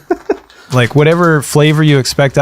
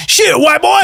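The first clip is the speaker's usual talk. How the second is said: Shaq impression; slower than usual. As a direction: yell it as Shaq. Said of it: "can I do my Obama?".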